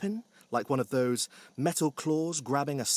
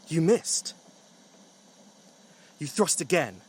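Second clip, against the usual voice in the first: building louder and higher as the stabbing goes on; frantic, loud climax of the stabbing; frantic narration; 4 semitones higher, 7 dB louder than usual. A narrator's reading. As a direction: narrate the frenzy, rising to a frustrated outburst.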